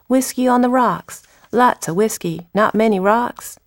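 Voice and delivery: lilting dramatic-monologue recital; poem reading. Acted. Poet reads Gil blaming God, measured recital. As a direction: read verse as a plain-spoken Southerner, with pauses.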